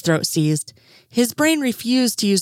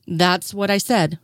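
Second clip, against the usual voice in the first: irritable snap. Acted. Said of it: "Sherlock snapped back irritably".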